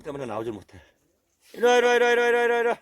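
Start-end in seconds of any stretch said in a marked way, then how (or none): 1.5-2.1 high, loud calls with the last word stressed; repeated loud call. Real, not acted. Owner calling his hiding dog again and again, high and loud. 2.1-2.8 high, loud calls stressing 이리; repeated loud call. Real, not acted. Owner calling his hiding dog again, still high and loud.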